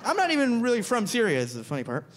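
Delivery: ordinary talk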